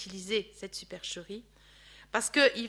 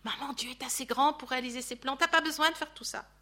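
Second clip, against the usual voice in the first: gentle plea. Pretend. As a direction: coax her kindly, no push. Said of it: "ça aurait été un électrochoc".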